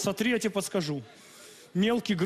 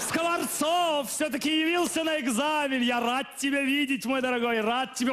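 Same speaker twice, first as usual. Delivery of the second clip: overplayed friendly teacher; mock warm greeting; 5 semitones higher than usual. Teacher loudly greets late student.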